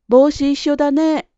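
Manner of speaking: put-on high, loud, eager child; spontaneous, friendly. A narrator's reading. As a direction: blurt it out to a new friend. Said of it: "思わず女の子に話しかけました". (思わず声を弾ませて)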